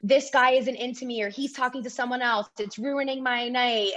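imitating girls griping about their night; lightly acted whine of complaint; mock complaining. Guest imitating girls complaining in a party bathroom, complaining. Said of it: "They were sitting there complaining".

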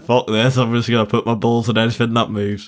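loose Yorkshire accent, mock bravado; a quick, sloppy Yorkshire voice; bad attempt at a Scottish accent that came out Yorkshire. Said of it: "That wasn't a Scottish accent. ... I did a Yorkshire accent".

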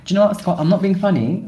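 hammed-up offended pitch jump; mock indignant retort. Staged quarrel, retort.

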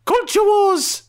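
very high, slow segment announcement; high, slow hammy announcer; mock announcer. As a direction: drag it out like a hammy TV trailer.

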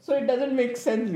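laughing through the words; chuckling as he speaks. Real, not acted. Laughs at own joke.

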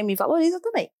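a quick whispered aside; breathy little plea, unvoiced. Real, not acted. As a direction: whisper it under your breath.

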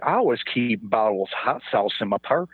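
lightly mocked Southern twang; fake Southern accent. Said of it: "she tries to put on a, a Southern swang".

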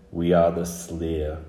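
slow, drawn-out ancient voice; a restrained, dry announcement from the dark; old, dry voice. Acted. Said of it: "very old and very dry".

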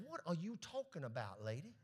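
scoffing neighbor, rising to a shout; mocking doubter. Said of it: "most folks would have said".

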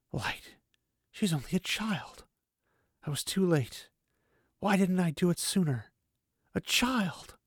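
a hint of a young man breaking down over a child; anguished grief. Rand grieving over dead child.

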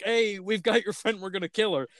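imitating how the kids hear it; lightly hammed-up villain; imagined menace.

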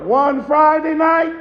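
chanted, sing-song preaching over the organ; preaching climax. Acted. Preacher closing the eulogy with the Calvary story, sing-song whoop.

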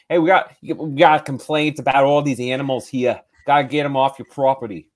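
imitating a New York cop; loud, half-hearted New York cop; New York accent. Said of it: "I'm not doing a good accent".

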